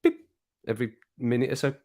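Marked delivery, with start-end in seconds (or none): 0.0-0.3 short imitation of a machine beep; imitated beep. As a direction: make a tiny electronic beep. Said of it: "it just goes beep".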